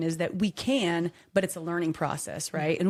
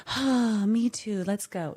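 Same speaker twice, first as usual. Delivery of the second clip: exaggerated sigh of relief, pitched up then easing down; relieved; 3 semitones higher, much slower than usual. Mom to imagined apologetic kids, mock relieved. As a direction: play gratefully making up.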